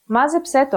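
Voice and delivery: "Μάζεψέ το" stressed on Μά and ψέ; "το" unstressed after stressed ψέ; double stress. Shown as a demonstration. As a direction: join "Μάζεψέ το", hitting both accents. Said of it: "The second case of enklisis".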